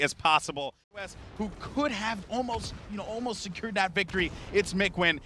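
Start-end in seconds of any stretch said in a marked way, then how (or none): 1.4-5.2 higher-pitched, eager esports commentary; live play-by-play. Real, not acted. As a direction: call the game as it unfolds.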